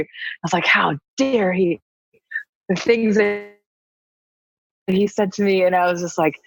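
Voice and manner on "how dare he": slow, emphatic retold indignation; so angry. Guest fuming on her scooter in the retelling, slow indignation. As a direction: draw out the outrage word by word. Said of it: "I was so angry".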